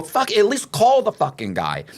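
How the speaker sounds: high, strained hammed-up scolding, slowing at the end; pleading through clenched frustration; mock exasperated scolding. Telling Danny to at least call the guy, high mock exasperation.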